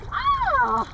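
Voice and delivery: gasping and shrieking from the cold; yelling in shock at freezing water; in ice cold water. Real, not acted. Jumping into the cold fjord.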